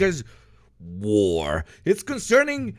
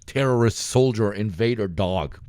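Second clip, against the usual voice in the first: lightly voiced fanatic, lower; mock hostile militant; 8 semitones lower than usual. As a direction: growl it as a put-on fanatic bit. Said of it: "Dude, I said that as a bit".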